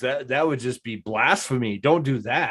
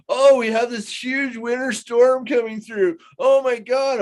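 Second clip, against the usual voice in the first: mock panic; 7 semitones higher than usual. Mocking panicky news reports.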